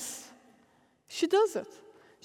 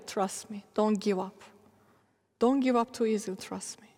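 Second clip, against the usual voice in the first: gentle God; 3 semitones lower than usual. Retold or imitated. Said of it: "God was only telling me".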